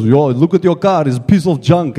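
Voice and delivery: mock Russian-accented grumbling; lightly hammed-up Russian accent; Russian-accented mechanic. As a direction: imitate a blunt Russian mechanic. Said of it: "He's got a big Russian voice".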